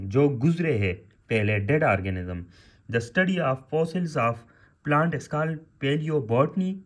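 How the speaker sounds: definitions read out slowly for note-taking; teacher dictating the definition word by word; slow dictation. Shown as a demonstration. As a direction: spell out each phrase slowly for students. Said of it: "dictating definitions to class".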